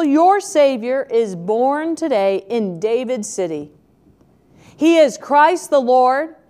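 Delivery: measured reading of the Christmas verses; scripture reading. Acted. Preacher reads the shepherds passage to the congregation, measured scripture reading. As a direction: read the passage aloud to the congregation.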